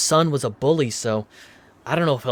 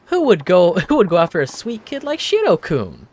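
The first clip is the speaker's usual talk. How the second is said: indignant woman voice; 6 semitones higher, 3 dB louder than usual. Acted. Voicing Miyara, indignant.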